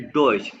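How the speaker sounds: डॉइच said "doych", clipped; German Deutsch. Shown as a demonstration. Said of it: "German को क्या कहते हैं".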